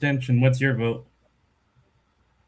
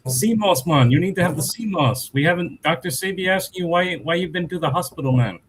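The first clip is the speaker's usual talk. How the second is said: imitating a Jamaican accent; playful Jamaican accent; 5 semitones higher than usual. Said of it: "speaking in a Jamaican accent".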